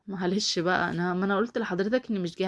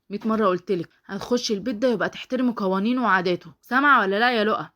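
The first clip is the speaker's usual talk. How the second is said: raised, louder scolding voice; fed-up telling-off; angry scolding; 2 semitones higher, 4 dB louder than usual. Acted. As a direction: lay down the law to a cousin, building to a loud demand. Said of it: "ما تزعقش كده".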